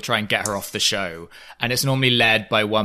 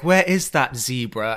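slow, mock British accent; the speaker mimicking Lisa; slower than usual. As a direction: imitate a poor British impersonation. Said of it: "Eileen does an impression of her".

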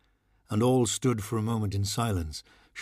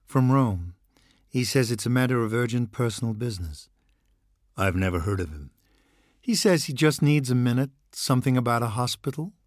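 brisk secretary relaying a visitor over the intercom; lightly voiced secretary announcing a priest; 3 semitones higher than usual.

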